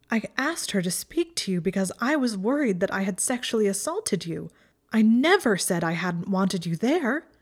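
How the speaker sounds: urgent, pitch leaping on key words; distraught protest. Acted. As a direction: protest it in shaken disbelief. Shaking, horrified, corrects his account.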